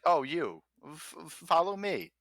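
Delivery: high nervous stammer. Acted. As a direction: stutter the invitation nervously. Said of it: "it's like".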